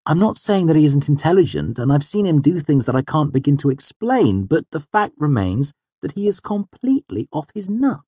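high, emphatic venting; exasperated complaint with swooping stresses. A narrator's reading. Heated complaint about his mentor.

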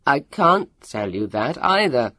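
loud, desperate protest; yelling. A narrator's reading. Leon refusing Elio's question, yelling. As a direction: shout the refusal in panic. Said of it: "Leon's voice yelled".

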